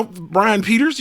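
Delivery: "Brian Peters" pitched high, rising at the end; name said pointedly. Acted. Streamer teasing a viewer's name, rising "Brian Peters". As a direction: announce "Brian Peters" with a questioning lift. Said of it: "gotta say it like that".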